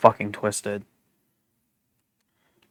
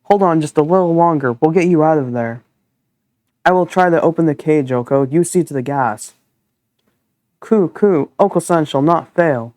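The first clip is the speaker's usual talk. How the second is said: raised, bird-like earnest voice; pigeon character; 4 semitones higher than usual. Acted. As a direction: play a brave little pigeon rallying the others. Voices the pigeon Oko-san.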